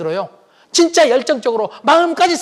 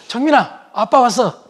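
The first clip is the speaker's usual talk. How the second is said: cheerful call; 3 semitones higher, slower than usual. Retold or imitated. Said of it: "웃고 들어가".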